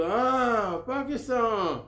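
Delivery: high, drawn-out foreign pronunciation of "पाकिस्तान"; sudden understanding from an American driver; American driver saying "पाकिस्तान" in a high, drawn-out voice; taxi driver's realization. Retold or imitated.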